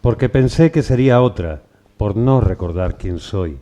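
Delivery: measured poem reading with pauses after each line; poem recital. Acted. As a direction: recite it line by line, letting each line fall at the end. Reads a poem aloud.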